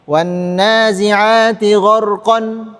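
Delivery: slow Quran reading, "gharqan" with tanwin; slow recitation. Shown as a demonstration. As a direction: recite "Wan nazi'ati gharqan" slowly. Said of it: "tidak boleh membaca". (bacaan pelan dengan tanwin)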